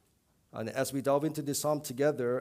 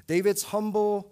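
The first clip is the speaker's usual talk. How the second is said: sudden loud burst; 7 semitones higher, 8 dB louder than usual. Real, not acted. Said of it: "preacher bursts out".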